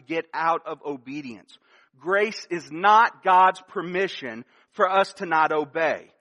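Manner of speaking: slow, measured, stress on "not"; deliberate preacher emphasis; slow emphatic restatement. Shown as a demonstration. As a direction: spell it out word by word, leaning on "not". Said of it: "Let me say that again".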